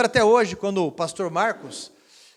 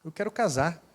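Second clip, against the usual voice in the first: timid confession; 6 dB quieter than usual. Retold or imitated. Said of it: "E ela disse".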